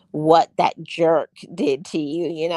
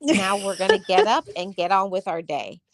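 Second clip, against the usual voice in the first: higher, brisk, no-nonsense; firm self-talk; 3 semitones higher than usual. Retold or imitated. Timer goes off, she orders herself up firmly. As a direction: call time on the sulking. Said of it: "I say".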